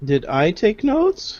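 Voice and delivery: high-pitched, very slow, very drawn-out, repeated. Answering whether notes were taken: high-pitched voice. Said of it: "the high pitch of your voice".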